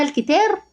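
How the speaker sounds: "الكتار" with thin t, as a doubting question; wrong light ta. Shown as a demonstration. Teacher asking if such a word exists, "الكتار" with light t. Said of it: "لا، ده بيقول القتا".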